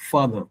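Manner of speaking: father stressed on the first syllable, falling away; weight on FA, weak "ther" in father; correct English father. Shown as a demonstration. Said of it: "only one way to pronounce".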